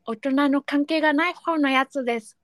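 lightly voiced toothless letter writer; a hint of a gap-toothed speaker; toothless reader. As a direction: read it as if a few teeth are missing. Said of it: "歯がないイメージで読んでみました".

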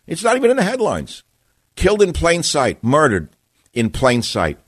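high, indignant outcry; outraged at a cover-up. Real, not acted. Outrage over Epstein.

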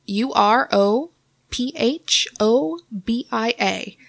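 letter by letter, slowly; spelled out slowly. Shown as a demonstration. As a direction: spell it out, one letter at a time. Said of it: "Could you spell it".

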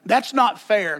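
sulky sibling protest; childish complaint. Retold or imitated. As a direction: kid whining about fairness. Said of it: "That song's gonna get sung".

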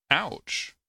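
high, sudden cry of pain; high-pitched mock yelp; storybook shout. A narrator's reading. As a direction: yelp as if pricked by something sharp. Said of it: "the little snowflake shouted".

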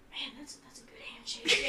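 awed whisper. Acted. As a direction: breathe it out impressed. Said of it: "he's like".

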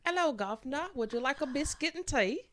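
high-pitched mock English accent. Shown as a demonstration. Asked by co-host for an English accent, offering tea in English accent. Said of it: "Can you do an English accent".

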